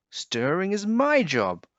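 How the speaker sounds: high squeaky protest; squeaky squirrel. A narrator's reading. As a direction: squeak it out like a small indignant squirrel. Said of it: "squeaked the squirrel".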